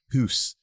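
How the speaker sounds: "hoose" with a long oo vowel for house; Scottish pronunciation. Retold or imitated. Host showing how a Scot says house, Scottish "hoose". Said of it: "that's how Scottish people say house".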